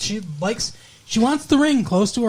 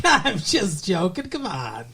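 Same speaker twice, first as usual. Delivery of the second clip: slow, drawn-out tipsy brush-off; mock tipsy drawl; imitated tipsy woman. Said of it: "She gets nice and tipsy".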